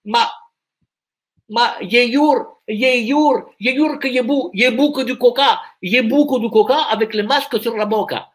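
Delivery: hammed-up fake Spanish accent; faux accent espagnol. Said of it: "je suis un peu bloqué sur l'accent espagnol". (faux accent espagnol, voix haut perchée)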